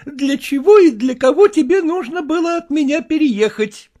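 wife mocking husband's mistress; sarcastic wife. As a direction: sneer it out with a bitter laugh.

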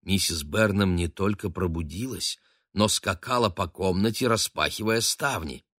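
usual speaking voice

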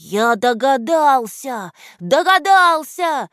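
high, slow joyful yell. A narrator's reading. Anton shouts his guess to the friends: joyful yell. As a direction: shout out the discovery. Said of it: "завопил Антон".

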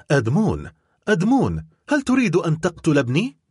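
desperate plea. Acted. Mercedes pleads with Edmond for her son, desperate. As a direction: beg him in despair to spare her son. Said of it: "وهتفت في يأس وقنوط".

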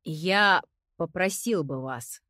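deep bass. Acted. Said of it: "опустил свой обычный баритон".

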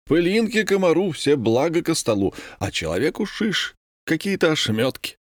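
indignant. A narrator's reading. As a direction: grumble at the unfair share. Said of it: "возмущался комендант".

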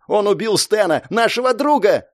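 high-pitched outraged cry. A narrator's reading. Girl accusing her friend's killer, crying out. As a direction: cry out in anguished protest. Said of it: "закричала она".

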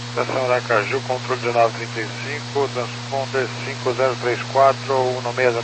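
tinny radio voice over static; crackly military radio. Real, not acted. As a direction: pilot talking through a cockpit radio. Pilot reading back clearance over radio. (rádio militar chiado)

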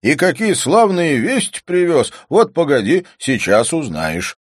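loud, high promise of news; excited calling. A narrator's reading. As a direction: call it out eagerly. Shouting good news from the carriage.

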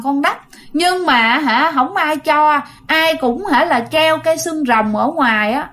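a small girl's pouty grumbling, mildly voiced; sulky child. Dead girl complaining to her family through her mother, a hint of sulky child. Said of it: "nó nói ngô nghê, nó giận hờn".

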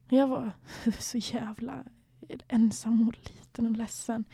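breathy, hushed admission of loneliness; sad whisper. Real, not acted. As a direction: let the words sink into a hush of sadness. Confessing loneliness, voice dropping.

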